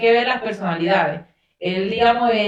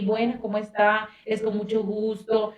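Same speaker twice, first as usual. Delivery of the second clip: saludo cortés imitado; 6 dB quieter than usual. Retold or imitated. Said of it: "y aquí".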